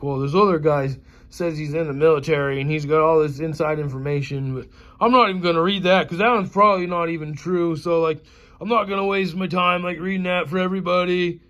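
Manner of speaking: lampoon the smug host; mock Steve. Imitating Steve's dismissive talk.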